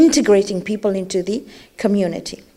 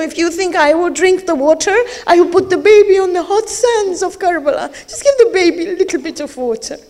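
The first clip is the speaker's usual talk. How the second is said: pleading; 4 semitones higher, faster than usual. Acted. Imam begging for water.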